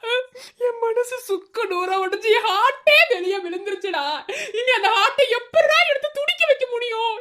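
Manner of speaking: mock lament. Hammed-up heartbreak lament.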